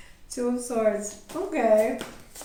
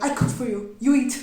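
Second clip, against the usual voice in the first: scolding mother; 6 dB louder than usual. Retold or imitated.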